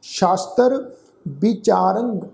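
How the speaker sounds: slow, drawn-out sacred recitation; scripture recitation. Shown as a demonstration. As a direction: recite slowly, holding the long vowels.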